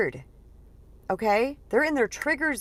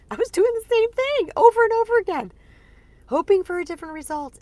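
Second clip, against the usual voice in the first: much higher, laughing through the words; laughing at herself; 12 semitones higher, 6 dB louder than usual. Real, not acted. Admitting to listeners her repeated mistake, laughing high.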